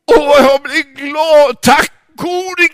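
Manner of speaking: high, loud, tearful gratitude; drawn out thank-you through tears; relieved thanks. Acted. Relieved father thanks God. (gråtmild tacksamhet)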